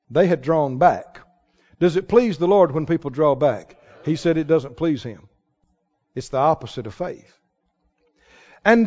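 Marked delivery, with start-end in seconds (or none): none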